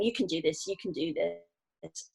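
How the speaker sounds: soft, slowing self-talk under her breath; quiet self-encouragement. Retold or imitated. To herself on the paddleboard, softly coaxing herself on. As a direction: talk yourself through the fear, softly. Coaching herself through fear.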